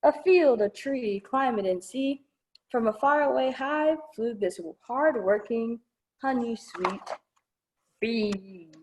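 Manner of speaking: softening final read-aloud lines; storybook ending. Acted. Librarian finishing the bee book for children, softening. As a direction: let the last line fade sweetly.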